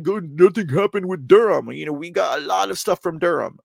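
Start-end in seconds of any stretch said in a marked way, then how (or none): 0.0-1.7 louder, higher mock complaint; imitating doubters. Host imitating people who still doubt Durham, mock complaint. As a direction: push out the doubters' line, mockingly loud. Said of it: "people are still like".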